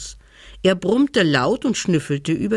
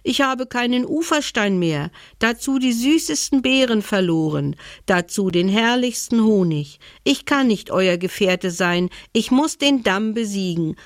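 grumbling bear; 4 semitones higher than usual. Acted. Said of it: "Der Bär aber grollte".

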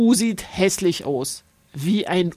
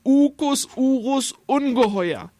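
nasal creature voice; 5 semitones higher than usual. A narrator's reading. Creature voice continues.

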